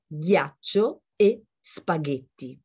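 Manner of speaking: « ghiaccio e spaghetti » avec un G dur; détacher « ghiaccio » et « spaghetti » lentement, G guttural. Shown as a demonstration. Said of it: "il suono diventa G e G". (« ghiaccio e spaghetti », G dur à l'italienne)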